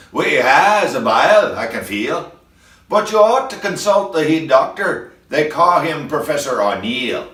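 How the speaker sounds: put-on a young Scottish doctor, hinted Scottish lilt; Scottish accent. Young doctor tells the missus to see the professor, mild Scottish accent. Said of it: "he says with an accent of Scotland".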